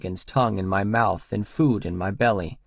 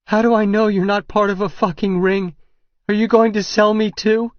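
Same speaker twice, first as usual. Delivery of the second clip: high, loud frightened accusation; angry accusation; 10 semitones higher, 5 dB louder than usual. A narrator's reading. Regan fearing he sells women, shouting in fear and fury. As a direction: hurl it at him in terror.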